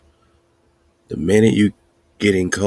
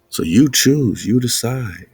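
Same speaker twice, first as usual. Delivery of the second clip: raised voice, punching the word you; emphatic call; 6 semitones higher, 4 dB louder than usual. Real, not acted. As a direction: preach it out loud and high. Emphatic preaching point.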